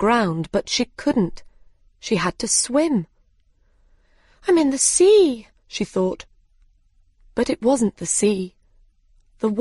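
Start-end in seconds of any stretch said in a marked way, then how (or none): 4.5-5.5 high, louder cry of surprise; sudden high-pitched realisation; startled exclamation. A narrator's reading. Alice exclaims on falling in water.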